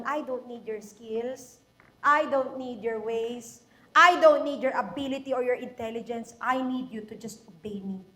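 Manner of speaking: voice of God. Acted. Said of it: "sabi sa akin ng Panginoon". (mababa at mahinahong tinig ng Diyos)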